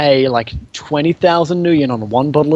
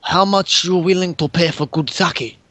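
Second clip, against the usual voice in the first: put-on high old shopkeeper; 4 semitones higher, slower than usual.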